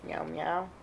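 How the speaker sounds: high, soft meowing; imitated meow. Owner prompting the cat to answer, high soft meow. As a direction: meow softly to coax the cat.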